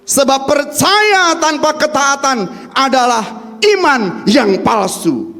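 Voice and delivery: slow, stressed sermon line; deliberate dictation pace; slow emphatic. Shown as a demonstration. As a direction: spell it out for note taking. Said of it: "Bisa dicatat Bapak Ibu".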